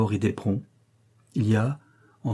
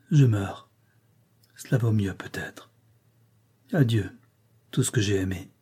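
fading to a whisper, life draining out; faint dying murmur; 3 dB quieter than usual. Acted. Fainting girl bids farewell to all she loved, faint murmur. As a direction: breathe the farewell, barely there. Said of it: "murmura d'une voix éteinte".

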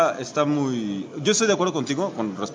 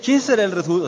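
mock mysterious teaser; 5 semitones higher, 3 dB louder than usual. Mocking the comic's mystery teaser.

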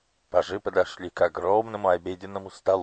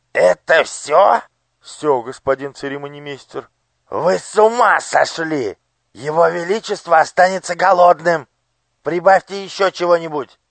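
outraged yell; 10 semitones higher, 10 dB louder than usual. Acted. Master of ceremonies berates the head cook, outraged yelling. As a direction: berate the cook as if the king will starve.

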